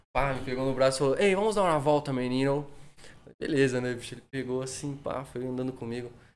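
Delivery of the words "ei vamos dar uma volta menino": Portuguese spoken with a put-on foreign bluesman's accent. Retelling how the bluesman greeted him: imitating the bluesman's accented Portuguese. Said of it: "ele falava um português com sotaque assim".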